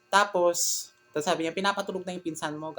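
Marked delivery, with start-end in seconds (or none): 1.6-2.8 irritated aunt. Retold or imitated. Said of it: "yung ganun yung tono na boses siya".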